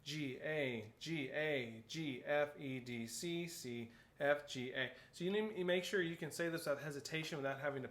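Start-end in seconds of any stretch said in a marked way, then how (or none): 0.0-4.9 reciting note names in a run; quick note recitation. Shown as a demonstration. Teacher showing how to drill note names, brisk even recitation. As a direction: rattle off the letters without hesitating. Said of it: "say it as fast as I can".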